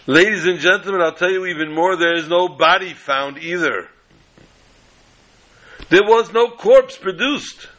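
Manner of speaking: high-pitched, booming closing argument; grand courtroom orator. Acted. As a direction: play the showman attorney working the room. Defense attorney addresses the jury.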